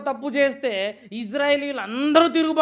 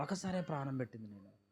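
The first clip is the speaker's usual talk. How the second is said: quoting Jesus softly; 10 semitones lower, 15 dB quieter than usual. Retold or imitated. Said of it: "యేసుక్రీస్తు వారు చెప్తున్నారు".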